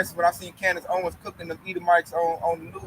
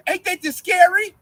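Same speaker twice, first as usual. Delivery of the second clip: higher mocking whine; mocking coworker; 10 semitones higher, 5 dB louder, slower than usual. Mocking the military coworker's question in a high whine. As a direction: mimic a frightened coworker, pitched up. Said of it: "And Esau's like".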